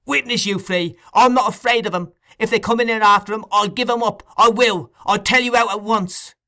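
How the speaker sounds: high, loud, frantic cries for help; a boy yelling murder at the top of his lungs; frantic shouting. A narrator's reading. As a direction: scream the house down in terror and rage. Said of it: "becoming more and more excited as he spoke".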